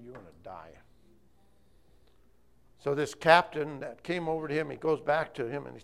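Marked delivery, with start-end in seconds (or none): 0.0-0.8 grave verdict. Acted. Elijah pronounces the king's doom.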